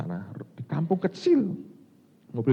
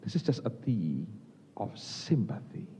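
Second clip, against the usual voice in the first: soft, slow, gracious English; gentle polite offer; 7 dB quieter, slower than usual. Retold or imitated. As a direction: offer the tea humbly and tenderly. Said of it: "Dia pakai kata-kata bagus". (tawaran lembut dan pelan)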